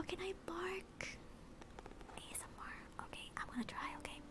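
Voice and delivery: hushed whisper; almost no voice, just breath. Real, not acted. Preparing ASMR barking.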